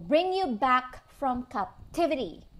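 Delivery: slow down to land on "captivity"; "captivity" drawn out with deliberate weight; stress on captivity. Real, not acted. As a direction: make "captivity" stand out, slowly. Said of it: "I wanna stress that word".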